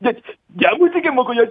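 high, shouted punchline; Jung Joon-ha impression. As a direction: belt out the punchline. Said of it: "정준하 씨로 성대모사 할 건데요".

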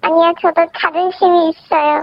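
voice changer. Real, not acted. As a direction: speak through a voice changer. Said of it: "음성 변조라서 그런가 옛날 배우 말투네". (음성 변조된 옛날 배우 말투)

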